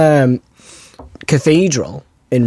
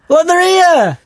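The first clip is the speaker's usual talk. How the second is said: high-pitched excited cry of discovery; buzzing; 3 dB louder, slower than usual. Retold or imitated. Retelling finding relatives' gravestones, buzzing. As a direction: call the others over, thrilled. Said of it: "I'm always buzzing when I".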